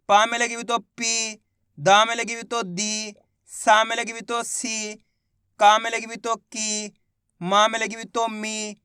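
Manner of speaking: slow, drawn-out पी, दी, सी, की, मी; stretched vowels. Shown as a demonstration. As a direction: chant each syllable slowly for pupils. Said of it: "खींच के करेंगे". (हर अक्षर को खींचकर धीरे-धीरे)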